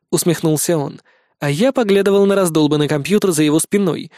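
ordinary delivery, nothing marked

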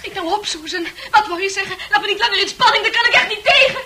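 laughing impatience. Acted. Fran urging Susan on, laughing. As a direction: urge her on, giggling.

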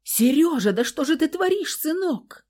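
mother-in-law pleading with the violent husband; pleading old mother. A narrator's reading. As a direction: beg him to stop, aghast. Mother begs son-in-law.

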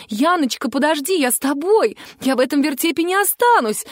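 причитая, громко; wailing. A narrator's reading. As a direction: wail after her daughter, outraged. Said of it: "заголосила Стефания Сергеевна".

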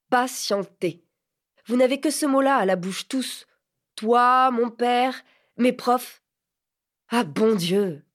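indignation montante, plus forte et plus haute; un lycéen exaspéré qui s'emporte; révolte adolescente. A narrator's reading. Phil se révolte. (garçon révolté, voix haute et forte)

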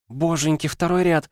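высоко, восторженно ахнуть; не верит своему счастью, визжит от радости; восторженный ах. A narrator's reading. Восторг от билетов. (восторженный возглас)

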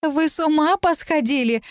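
high, outraged cry; shouted. Acted. Talit crying out at the girls who want to stay. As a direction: yell at them in disbelief. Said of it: "крикнула она".

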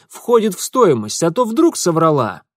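loud, firm and final; firm announcement. Acted. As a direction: lay down the terms firmly. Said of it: "твёрдо объявил".

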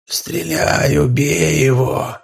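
slow eerie mimicking voice; shadow's echo. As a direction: echo the plea like a creeping monster. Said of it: "повторила тень". (жуткое повторение тени)

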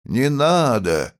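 blue-eyed peasant calls out firmly from the crowd; strong voice. A narrator's reading. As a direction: ring out firmly over the crowd. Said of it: "раздался в толпе сильный голос".

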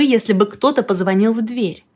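ordinary delivery, nothing marked

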